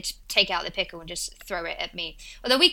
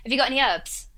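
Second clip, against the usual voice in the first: Essex accent, H dropped from "herbs"; casual Essex question, "herbs" said as "'erbs"; 3 semitones higher than usual. Shown as a demonstration. Brit showing American friend his dialect, Essex accent. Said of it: "that's what my accent is".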